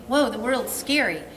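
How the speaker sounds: a hint of a frightened pup; timid dog voice. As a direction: voice a dog spooked by the world. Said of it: "a cautious submissive dog is like".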